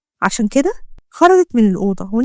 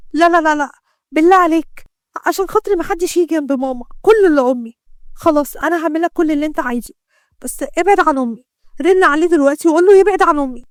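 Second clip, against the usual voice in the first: higher, rushed pleading; frantic begging; 4 semitones higher than usual. Acted. Doctor begs the gangster to spare her mother, frantic. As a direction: beg for her mother's life.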